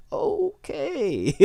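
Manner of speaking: weirded-out okay. Retold or imitated. Flint reacts to weird party.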